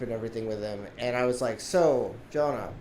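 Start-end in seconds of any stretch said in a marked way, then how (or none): 1.6-2.7 pointed question. Retold or imitated. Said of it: "I said in such a way".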